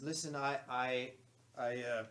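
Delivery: loud growly voice, halting. Acted. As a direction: growl it out as a gruff ally. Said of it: "He says in a growly voice".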